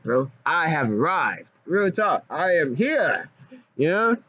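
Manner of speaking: high, squeaky cartoon voice, quick and goofy; cartoon character voice. Vlogger riffing to his chat in a high cartoon voice. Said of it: "I'm gonna do that voice in a movie".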